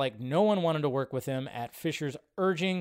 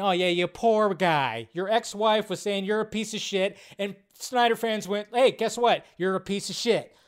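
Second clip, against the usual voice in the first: sarcastic mock sympathy; 3 semitones higher than usual. Mocking sarcasm at Whedon.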